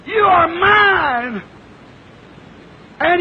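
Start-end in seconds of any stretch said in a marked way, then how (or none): 0.1-1.4 slow shout. Acted. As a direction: call out slowly, full voice. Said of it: "The old mother said".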